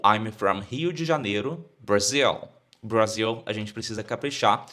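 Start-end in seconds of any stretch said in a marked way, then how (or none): 0.0-2.5 Brazilian accent. Shown as a demonstration. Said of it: "da forma que nós brasileiros falamos".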